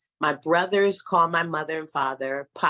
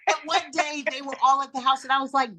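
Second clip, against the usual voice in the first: laughing; 8 semitones higher, faster than usual. Real, not acted. Laughing while telling story.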